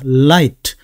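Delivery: "light" with the tongue tip pressed up on the L; firm L. Shown as a demonstration. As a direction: hold the L, then release into "light". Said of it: "혀 끝을 위에 붙여서".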